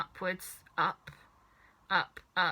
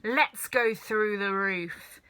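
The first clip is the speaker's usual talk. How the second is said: loud witchy demand; grandma demanding to go through the roof; screechy hag; 3 semitones higher, 5 dB louder than usual. A narrator's reading. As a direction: screech for another dose. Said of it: "old screechy voice".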